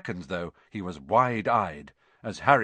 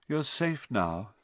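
murmured; 3 semitones higher, 3 dB quieter, slower than usual. A narrator's reading. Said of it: "Firenze murmured".

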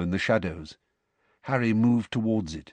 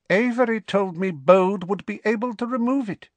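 cold dark lord; 11 semitones higher, 4 dB louder than usual. Acted. Dark lord questions servant.

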